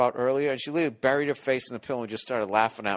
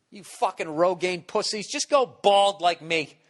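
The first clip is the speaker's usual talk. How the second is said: laughing insult; 5 semitones higher, 3 dB louder, slower than usual. Real, not acted. Laughing rant at the audience.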